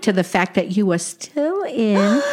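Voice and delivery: put-on old Brooklyn aunt with Yiddish lilt; yiddish accent. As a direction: play a wisecracking Jewish aunt. Sadie teasing sister.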